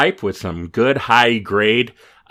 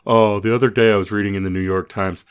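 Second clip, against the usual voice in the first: lightly mocking a show-off name-dropper; mock pretentious asshole. Mocking a show-off who reads the Times, lightly smug. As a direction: toss it out like a smug humblebrag. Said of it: "a sentence an asshole says".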